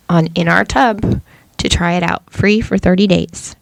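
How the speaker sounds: upbeat sponsor ad read. Acted. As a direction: sell it like a podcast ad. Reads a sponsor ad.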